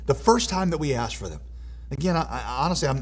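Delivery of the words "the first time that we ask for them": high, loud, exasperated why-not; impatient protest, easing down at the end; impatient questioning. Acted. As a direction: voice an indignant question, pitched well up. Acting out impatient question to God.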